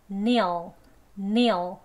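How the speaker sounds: "kneel" said loud and long with a falling tune; stressed syllable. Shown as a demonstration. Teacher showing the stressed syllable, stressing "kneel". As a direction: lean hard on "kneel". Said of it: "가장 강하게 높게 길게 발음합니다".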